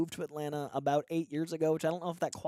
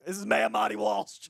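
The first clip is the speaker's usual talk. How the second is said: Boston accent impression; 4 semitones higher, 6 dB louder than usual. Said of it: "we're like".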